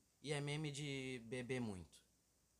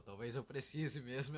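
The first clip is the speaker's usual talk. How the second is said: slow mock-serious delivery, a touch louder; imitating serious friend; 2 semitones higher, 5 dB louder than usual. Imitating his friend's sudden serious admission slowly. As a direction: repeat his line slowly and gravely. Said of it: "tu soltou um".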